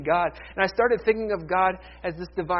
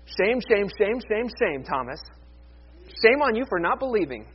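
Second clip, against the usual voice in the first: mock scolding. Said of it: "does Jesus ever get in his face".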